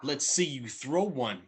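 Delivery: taunting dare, imitating a cocky rival; mock challenge. Shades challenging Rowdy to throw, mock taunting. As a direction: act out calling someone's bluff. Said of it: "challenges him".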